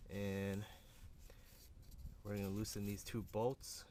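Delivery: talking while lying under a car; strained, speaking flat on your back. Real, not acted. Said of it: "I'm under the car right now".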